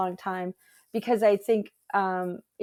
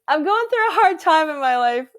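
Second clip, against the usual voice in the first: higher, louder mock protest; hammed-up defensive protest; 8 semitones higher, 7 dB louder than usual. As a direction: defend yourself in mock drama. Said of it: "I was like".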